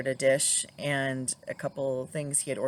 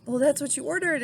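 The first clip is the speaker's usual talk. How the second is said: sassy waitress; 11 semitones higher, 7 dB louder than usual. Retold or imitated. Waitress quoted giving it back.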